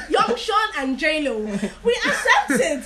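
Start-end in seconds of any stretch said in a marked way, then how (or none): 0.1-1.4 "J Lo" for yellow, J in place of Y; J and Y swapped. Shown as a demonstration. Speaker showing her accent's J-Y problem, sounds swapped. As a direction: say "Young Sean" for junction, Y in place of J. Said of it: "we have a problem with our J and Y".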